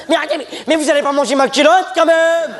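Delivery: high, fast, laughing protest; high girl voice. Acted. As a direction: squeal it fast. (voix de fille aiguë et rapide)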